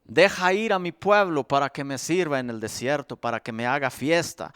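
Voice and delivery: low, soft, grave decree; solemn command. Acted. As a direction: hand down God's command quietly. Mensaje de Dios a Faraón. (orden solemne y baja)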